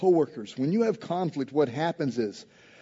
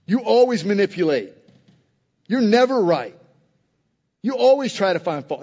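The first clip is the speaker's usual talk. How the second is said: louder, mildly heated blaming; mock aggressive accusation; 3 dB louder than usual. Preacher mimicking a spouse attacking character in conflict, mildly aggressive. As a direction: act out an attack on someone's character. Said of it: "a little aggressive".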